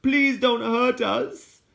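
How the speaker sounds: put-on high, slow, soft pleading child; soft-accented child. A narrator's reading. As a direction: beg gently not to be hurt. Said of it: "The accent wasn't British. It was something softer".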